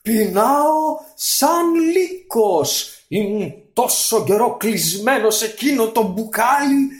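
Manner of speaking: high, loud, slow genie voice; a starving monster complaining; hungry genie growl. Acted. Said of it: "γρύλισε".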